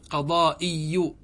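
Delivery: قضائي drawn out slowly as qaḍā-i-yu; slow teacher's demo of قضائي as qaḍā'iyu; kasra on hamza. Shown as a demonstration. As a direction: sound the hamza in قضائي with an i, ending in yu. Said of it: "الكسرة التي على الهمزة".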